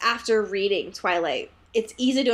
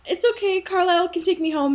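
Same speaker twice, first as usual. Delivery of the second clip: lightly voiced, pitched-up imitation; a hint of airy reassurance, higher; imitating Bella; 5 semitones higher than usual. Retelling Bella declining a ride, lightly imitated.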